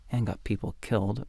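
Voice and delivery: guilty muttering aside; muttered. A narrator's reading. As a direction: mutter it so nobody overhears. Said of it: "muttered Alam".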